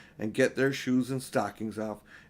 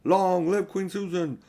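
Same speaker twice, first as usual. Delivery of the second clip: deafening shouts; 6 semitones higher, 4 dB louder, slower than usual. Acted. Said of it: "deafening shouts of".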